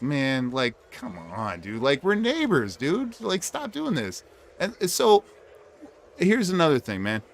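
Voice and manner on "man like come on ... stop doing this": exasperated plea. Retold or imitated. Pleading with a nosy neighbor, exasperated. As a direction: beg him to stop, fed up. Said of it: "I was just like".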